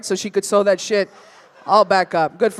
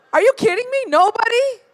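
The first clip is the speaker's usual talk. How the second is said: mock shock; 11 semitones higher than usual. Real, not acted. Crowd silence on Woodbridge.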